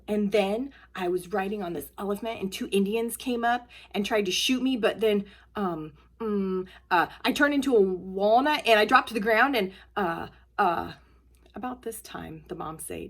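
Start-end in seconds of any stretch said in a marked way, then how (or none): 0.1-10.9 lightly voiced kid, louder as it builds; a hint of a child making up a dream; rambling child. A child drags out a dream story at breakfast.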